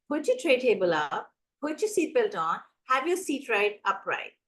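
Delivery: lightly voiced firm instruction; confident statements, evenly delivered without asking; clear, assertive. Air hostess instructing passengers, clear assertive voice. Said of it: "assertive voice".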